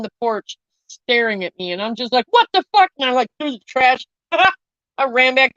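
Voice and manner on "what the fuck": high, loud startled outburst; retold shock. Retelling spotting the toad on the porch, shocked outburst. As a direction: re-enact a startled yelp, pitched way up.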